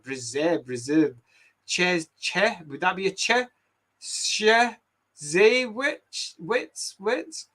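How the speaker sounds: hesitant, questioning stabs at unfamiliar Polish words; struggling to pronounce. Real, not acted. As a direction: try each foreign word, unsure of it. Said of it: "I can't pronounce any of this".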